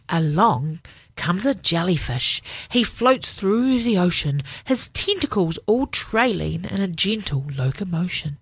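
put-on gentle read-aloud for children; story narration. A narrator's reading. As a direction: tell it like a bedtime book.

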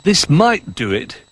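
a little bear having a go; Little Bear trying. Acted. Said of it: "he said".

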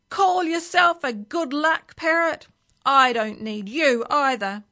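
loud, indignant retort; yelling back. A narrator's reading. Driver answers the parrot's insult, yelling back. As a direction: throw it back at full voice. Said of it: "Billy Castor yelled back".

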